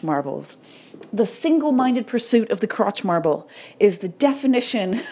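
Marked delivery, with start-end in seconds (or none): 1.1-5.0 straight line about to crack into laughter; trying not to laugh. Real, not acted. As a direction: hold back a giggle as you say it. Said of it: "I can't even say it with a straight face".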